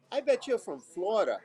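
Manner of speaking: mock heavy Minnesota accent. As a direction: imitate a northern Minnesotan stranger. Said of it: "with this heavy accent".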